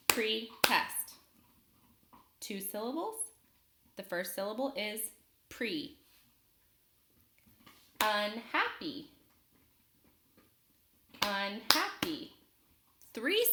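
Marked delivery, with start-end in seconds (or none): 0.1-1.2 "Pretest" in two separate beats, Pre, then test; split into syllables. Shown as a demonstration. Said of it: "I'll clap it out". 11.3-12.3 "Unhappy" slowly in beats, Un, hap, py; split into syllables. Shown as a demonstration. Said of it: "I'll clap it out".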